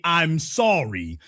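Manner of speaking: "I'm sorry" drawn out very slowly as a full, sincere apology; slow plain apology. Shown as a demonstration. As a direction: stretch "sorry" out like you really mean it. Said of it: "Do not say".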